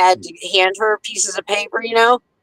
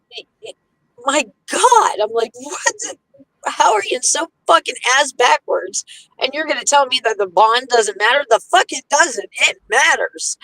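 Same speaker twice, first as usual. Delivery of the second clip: higher-pitched retold outrage; incredulous rant at the lawyer, pitched up; indignant rant; 3 semitones higher than usual. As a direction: rant in disbelief, pitch raised. Retold rant at lawyer about bond.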